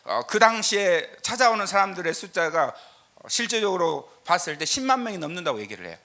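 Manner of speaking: loud, high preaching voice driving the point home; full-force preaching. Acted. A pastor preaching to his congregation at full force.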